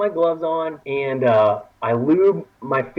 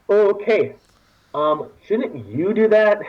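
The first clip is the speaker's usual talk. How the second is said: reluctant; 4 semitones higher, slower than usual. Retold or imitated. Acting his own reluctant reply.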